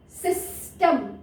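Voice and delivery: सिस्टम said slowly, each sound drawn out; slowly stretched सिस्टम. Shown as a demonstration. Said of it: "ई का sound देखिए".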